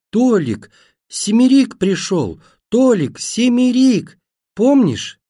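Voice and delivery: high, fluting cry, stretched out slowly; unnaturally thin, high call; thin piercing shout. A narrator's reading. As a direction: shout shrilly into a deaf man's ear. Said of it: "неестественным, тоненьким, пронзительным, как флейта, голосом прокричала в ухо".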